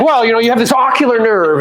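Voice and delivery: high-pitched mock expert; playful imitation of a learned answer; sophisticated know-it-all. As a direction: tease him with an explainer's put-on voice. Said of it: "I know you're sophisticated".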